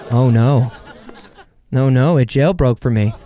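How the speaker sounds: laughing through a loud mock panic; mock dismay while chuckling. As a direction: fake alarm, cracking up.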